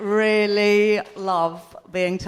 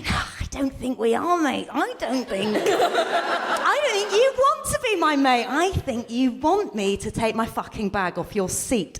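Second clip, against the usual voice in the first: sarcastic retort; slower than usual. Pretend. Retorting to aggressive stranger.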